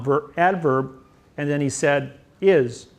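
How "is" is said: IS said with firm stress; a single emphatic IS, standing alone; Bill Clinton's emphasis. Retold or imitated. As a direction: land hard on the word "is". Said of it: "with emphasis".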